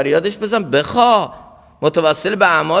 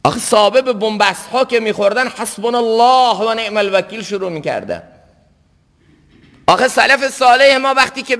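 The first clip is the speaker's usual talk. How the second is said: raised pitch, easing toward each close; impassioned preaching; 7 semitones higher than usual. Real, not acted. Preacher citing the companions' words in hardship, impassioned. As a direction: exhort with the example of forebears.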